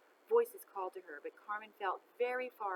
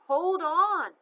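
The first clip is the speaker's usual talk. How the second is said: loud, much higher urgent shout; louder call; 10 semitones higher, 16 dB louder than usual. A narrator's reading. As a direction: call out to her, desperate. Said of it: "It got louder".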